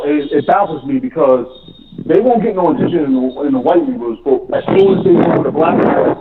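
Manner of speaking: normal talking voice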